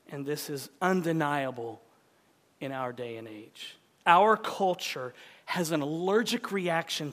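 emphatic sermon delivery with weighted key words; preaching. Real, not acted. Preacher warns congregation that the world hates Jesus, emphatic preaching. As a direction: preach it in measured, punched phrases with deliberate pauses.

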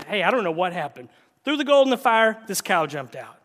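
Aaron's flustered excuse, a touch hammed-up; mock excuse. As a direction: shrug it off like a caught kid. Aaron's lame excuse voiced.

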